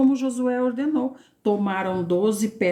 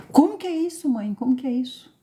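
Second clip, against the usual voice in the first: much higher, then settling down; a wide-eyed little kid asking how; amazed child voice; 3 semitones higher, faster than usual. Acted. Child marvelling at David killing Goliath, much higher pitch.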